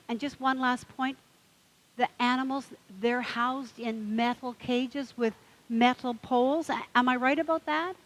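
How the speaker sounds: mock-indignant questions piling up; worked-up duck. Duck's final question, building up.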